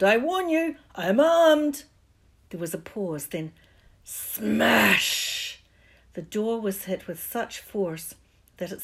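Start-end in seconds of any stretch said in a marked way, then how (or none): 0.0-1.8 high loud warning shout; loud threatening. Acted. Vernon threatening the intruder. 4.0-5.6 loud smash. Acted. Door smashed in.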